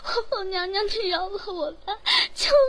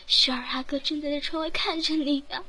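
tearful warning. Acted. Maid warns the empress again, crying. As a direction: say 看 with a rising, tearful lift.

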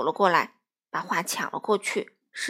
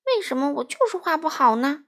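louder, higher angry outburst; frustrated shout at himself; storybook anger, played up for kids; 5 semitones higher, 5 dB louder than usual. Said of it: "他生气地说".

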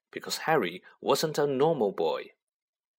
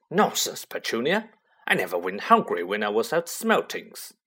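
hearty; 2 semitones higher than usual. Acted. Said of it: "said Uncle Vernon heartily".

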